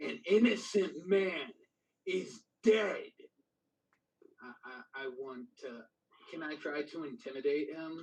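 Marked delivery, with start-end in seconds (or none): 0.0-3.0 full-on furious outcry, loud and high. A role-play character stands and shouts at the royalty, furious shout. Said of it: "I shout at the royalty".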